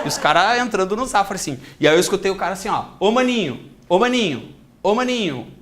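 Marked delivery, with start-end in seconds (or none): 3.0-5.5 lightly voiced robber calling after someone; hey-you call, mildly acted.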